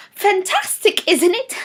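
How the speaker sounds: talking stool. Acted. The stool suddenly speaks up.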